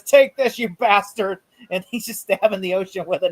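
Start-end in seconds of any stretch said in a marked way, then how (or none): 0.0-1.4 mock battle cry. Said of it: "He goes".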